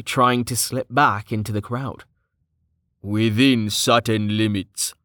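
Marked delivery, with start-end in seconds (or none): 3.0-4.9 slow, icy qualification; measured, understated threat. Acted. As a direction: draw it out coldly. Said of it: "His tone was icy".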